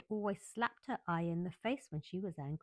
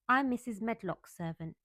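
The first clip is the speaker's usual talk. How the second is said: firm, louder maid holding her ground; stoutly; 4 semitones higher, 6 dB louder than usual. Acted. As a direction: stand your ground, firm and plain. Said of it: "she said stoutly".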